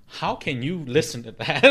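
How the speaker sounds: slow, incredulous question through laughter; laughing disbelief with a touch of fright; terrified, half laughing. Real, not acted. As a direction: ask it spooked but laughing. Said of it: "you hear the terrifiedness in my voice".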